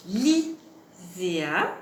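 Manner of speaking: "Lisea" split after the first syllable, with a gap; syllabes détachées. Shown as a demonstration. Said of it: "qui ont la syllabe li". (« Lisea » en détachant la première syllabe)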